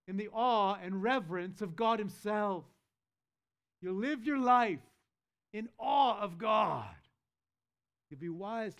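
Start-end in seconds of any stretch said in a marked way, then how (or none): 3.8-8.8 loud, rising declaration; fervent preaching. Acted. Preacher urging the church toward awe of God, loud fervent declaration. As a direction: drive it home to the congregation.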